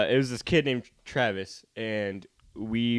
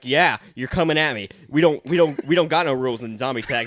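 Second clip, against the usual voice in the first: retold shouting; 3 semitones higher, 8 dB louder than usual. Arguing back at the bigger kid.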